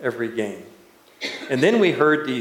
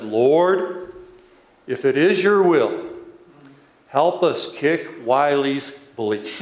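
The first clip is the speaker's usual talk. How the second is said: rich bass voice; slower than usual. Retold or imitated. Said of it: "that rich bass voice said".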